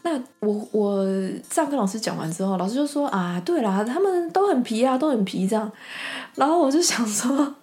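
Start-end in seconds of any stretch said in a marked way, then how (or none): 3.1-5.7 high teacher quote. Retold or imitated. Quoting teacher.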